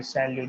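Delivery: shall you said as "sa-lyu", no final T; Salut without the T. Shown as a demonstration. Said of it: "read it like this by avoiding the T".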